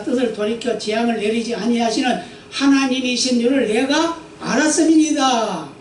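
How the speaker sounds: 또박또박 경건하게 읽는 성경 낭독; 회중 앞에서 말씀을 엄숙히 읽어 주듯. Acted. Reads scripture aloud. (설교자가 회중에게 본문을 읽어 주는 경건한 낭독)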